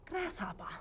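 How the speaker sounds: put-on whispered martial-arts movie Asian accent; mock Asian accent. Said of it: "Asian accent thing happening".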